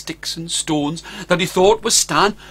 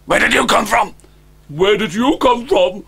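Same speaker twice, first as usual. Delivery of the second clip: higher, louder shocked question; a mother dragon stunned he survived; astonished dragon mother; 5 semitones higher, 4 dB louder than usual. Acted. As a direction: gasp at the unexpected guest.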